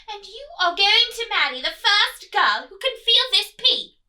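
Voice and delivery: loud, firm royal call to attention; commanding queen. Acted. Queen ordering the prince to listen, loud and commanding. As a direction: demand his attention. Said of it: "said the Queen".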